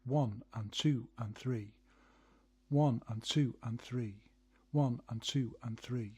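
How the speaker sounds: one and two and three, slow even beats; counting the rhythm. Shown as a demonstration. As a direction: count it out slowly. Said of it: "The rhythm is like".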